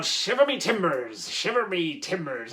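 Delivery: lightly put-on pirate accent; terrible pirate accent. Host introducing the recycling challenge, terrible pirate accent. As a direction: give a hint of hammy pirate. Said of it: "doing my terrible pirate accent".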